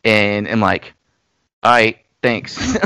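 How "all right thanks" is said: code-switched lower voice. Retold or imitated. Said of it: "dip down and code switch".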